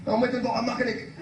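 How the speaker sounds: high, put-on comic character voice; high-pitched caricature of a hapless motorist; Chalky character voice. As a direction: plead it high, as the stranded driver. Chalky repeats himself to policeman.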